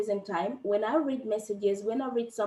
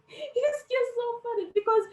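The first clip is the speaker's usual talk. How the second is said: laughing it out, much higher pitched; 13 semitones higher, 4 dB louder than usual. Real, not acted. Amused at how she cries it out, laughing. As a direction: giggle through the words at yourself. Laughs at her own crying.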